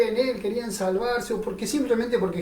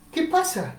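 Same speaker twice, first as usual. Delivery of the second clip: blind beggar asking; 9 semitones higher than usual. Acted. Blind beggar asking what's happening.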